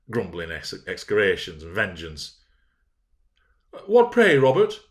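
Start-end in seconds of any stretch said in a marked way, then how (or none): 3.9-4.8 much higher, louder call from the door; hallooing. A narrator's reading. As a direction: holler it across the hall. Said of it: "hallooed Linton from the entrance".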